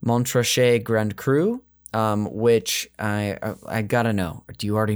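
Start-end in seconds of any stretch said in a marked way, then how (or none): 0.1-1.6 put-on French accent. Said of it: "with his French accent".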